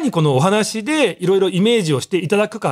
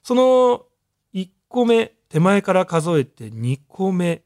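slow careful scene setting; slower than usual. Shown as a demonstration. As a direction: count the stalls slowly. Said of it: "聞いてる方がちゃんとそのついてこれるような".

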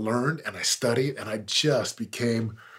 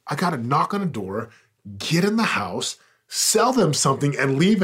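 retold panic; 5 semitones higher, 7 dB louder than usual. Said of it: "And I was afraid".

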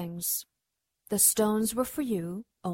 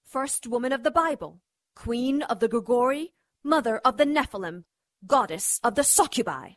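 grand proclamation; 4 semitones higher than usual. Acted. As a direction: proclaim like a dark goddess. Goddess proclaims her titles.

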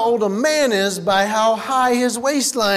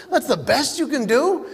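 1 incredulous; 4 semitones higher than usual. Retold or imitated. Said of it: "repeat of his retort".

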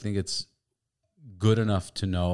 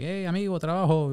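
day laborer impression; 10 semitones higher than usual. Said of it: "the Mexicans like".

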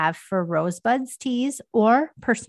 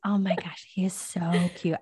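hushed whisper so the puppy sleeps; 2 semitones lower, 5 dB quieter than usual. Real, not acted. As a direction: whisper it softly. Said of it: "I'm sorry, I'll whisper".

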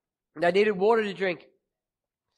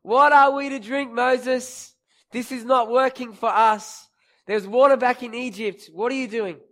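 louder, higher mock grumble at Moses; grumbling complaint; 3 semitones higher, 3 dB louder than usual. People grumbling at Moses, mock complaint. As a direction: whine it like a fed-up crowd. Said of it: "the people grumbled against Moses".

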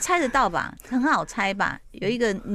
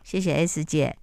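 softer, polite, composed thanks; polite and calm; 4 semitones lower, 3 dB quieter than usual. Retold or imitated. Husband calmly thanking Xiao S on the phone, softer polite voice. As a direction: stay courteous and unbothered. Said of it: "就很冷静".

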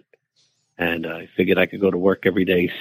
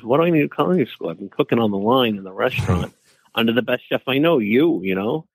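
cocky; 2 semitones higher than usual. Retold or imitated. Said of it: "being a cocky eighteen-year-old".

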